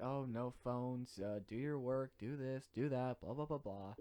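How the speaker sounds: slow, lightly voiced stern teacher; mock strict teacher. Student mocks strict student teacher's rules, slow and bored. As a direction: drag out the teacher's rules mockingly. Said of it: "she's very strict".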